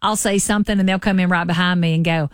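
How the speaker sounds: ordinary delivery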